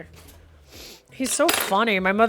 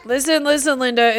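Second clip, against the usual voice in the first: mock meme voice; 4 semitones higher, 7 dB louder than usual. Echoing chat's Linda meme.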